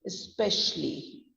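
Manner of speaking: especially in careful separate syllables; careful pronunciation. Shown as a demonstration. Teacher modelling a commonly mispronounced word, careful pronunciation. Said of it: "Then the next word is".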